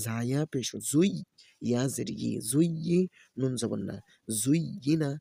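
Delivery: sing-song letter-by-letter chant; Quran-primer teacher's recitation; spelling drill recitation. Shown as a demonstration. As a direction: spell each syllable, then lift the joined word. Spells out Arabic syllables for learners.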